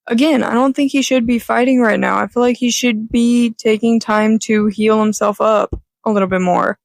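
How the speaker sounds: hoarse, raspy speaking voice. Real, not acted. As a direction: talk through a raspy throat. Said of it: "I am sorry my voice is so raspy right now".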